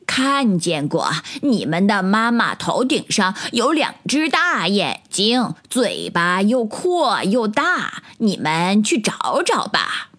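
lightly voiced mother duck, slow. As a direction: answer little ones slowly, as a mother duck. Mother duck answers tadpoles. (鸭妈妈慢慢地回答)

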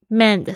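mend said slowly and stressed, the last syllable of "recommend" carries the beat. Shown as a demonstration. Teacher showing listeners where the stress in recommend falls, slow and stressed mend. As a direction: draw out and hit mend in reco-MEND. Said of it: "它的重音是在mend上面".

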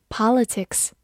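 politics in an American accent; American pronunciation. Shown as a demonstration. Teacher giving students the American version, American pronunciation of "politics". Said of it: "美式发音".

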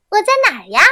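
a tiny creature looking for itself; small grasshopper asking. A narrator's reading. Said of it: "小蚱蜢问". (小蚱蜢疑惑地问，声音高)

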